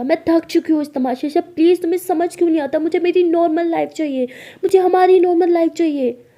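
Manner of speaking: loud, high, exasperated outburst; shouting. A narrator's reading. Maya snaps at her secret partner about their hidden life, shouting. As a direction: shout it out, fed up with the whole charade. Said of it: "माया बहुत ज़्यादा shout करने लगती है".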